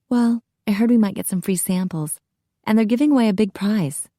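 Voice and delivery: slightly lifted, quickening student chat; a hint of a casual, chatty redhead; lightly voiced redhead student.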